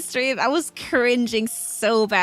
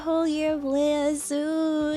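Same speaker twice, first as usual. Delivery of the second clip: excited; 9 semitones higher, slower than usual. Real, not acted. Celebrating one-year anniversary.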